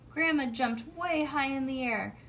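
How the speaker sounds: ordinary delivery, nothing marked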